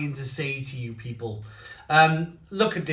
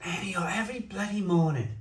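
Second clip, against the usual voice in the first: street cry; 4 semitones higher, 3 dB quieter, faster than usual. Retold or imitated. Imitating rag-and-bone man call.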